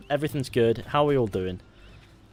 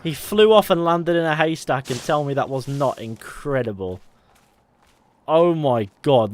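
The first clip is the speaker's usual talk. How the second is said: loud, thrilled disbelief; real awestruck outburst; amazed excitement; 6 dB louder than usual. Real, not acted. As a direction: marvel loudly at what just happened. Still amazed by haystack landing.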